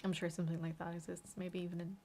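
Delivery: talking while chewing popcorn; munching popcorn. Real, not acted. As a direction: mouth full of popcorn. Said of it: "Sorry, I'm just eating popcorn here".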